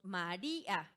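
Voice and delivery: María split as "ma-RÍ-a"; broken into syllables. Shown as a demonstration. Teacher pointing out the stressed syllable, drawn-out hiatus. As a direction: lengthen the RÍ of María and detach the final a. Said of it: "fíjense en la palabra María".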